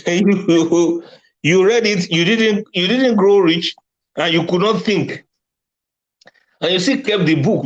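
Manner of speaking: high-pitched, amused delivery; laughing teasing. Real, not acted. Teasing readers who never grew rich, laughingly. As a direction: push the words out through amusement.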